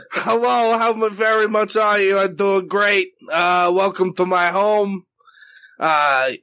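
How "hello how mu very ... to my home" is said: mom impression. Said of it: "it's my impression of Ma".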